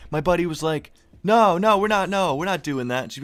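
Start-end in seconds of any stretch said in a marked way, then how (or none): 1.2-3.0 hasty denial. Retold or imitated. Buddy denies it to mom.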